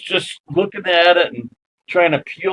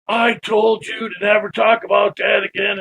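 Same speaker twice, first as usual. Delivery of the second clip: raised, scolding; angry husband; 6 semitones higher than usual. Retold or imitated. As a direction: snap at her to drop the subject for good. Husband scolds wife over ghosts.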